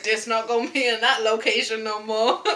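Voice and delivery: loud, hammed-up Black accent imitation; bad Black accent. Demonstrating how she said it to her friend, bad Black accent. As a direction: redo your own terrible Black accent, laughing. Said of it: "That's how I said it".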